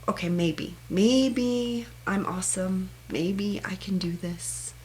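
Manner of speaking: slow, hesitant, ending in a whisper; tentative self-belief. Shown as a demonstration. Someone not used to self-praise, hesitantly cheering themselves on. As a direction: try the words on shyly. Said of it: "then say".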